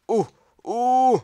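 high startled yelps; panicked yelp. Real, not acted. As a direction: yelp in alarm. Panic noise. (gritos de pánico agudos)

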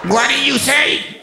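high, slow baffled shout; confused shout. Retold or imitated. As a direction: shout it out, totally lost. Driver confused by cop.

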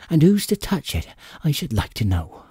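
mild tearful complaint rising high; understated sobbing question; a touch of a sob. A narrator's reading. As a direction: let the fear break into a small sob. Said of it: "she gave a kind of sob".

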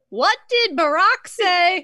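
high, slow, emphatic first-lady impression; Michelle Obama. Comic trying an unsure impression for friends, high and slow. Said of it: "I will do in Michelle's voice".

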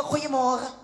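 suitor's hammed-up French accent; mock French accent. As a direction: woo her in a put-on French accent, slowing at the end. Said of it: "Hy was die mooiste French accent".

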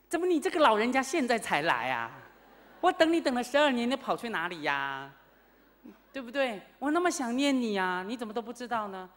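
monk reproaching Maitreya, loud and longing; yearning complaint. Retold or imitated. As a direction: pour out twelve years of longing. Monk reproaches Maitreya after twelve years.

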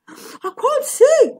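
high, slow, muffled cry. A narrator's reading. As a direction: call out as if something covers your face. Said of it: "he said in a muffled voice".

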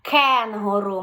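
Кенгуру slowly, loud clear К; повільно, чітке К; slow model word. Shown as a demonstration. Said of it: "всі, які починаються на К".

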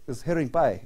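lightly imitated Ukrainian kid; a touch of a Ukrainian accent. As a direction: slip into a mild Ukrainian accent. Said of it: "in his little Ukrainian voice".

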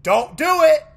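high, loud warning; tense shout. Real, not acted. Repeated warning to the game.

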